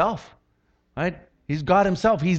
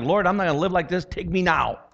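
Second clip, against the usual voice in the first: retold desperate plea; 2 semitones higher than usual. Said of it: "and I'm like".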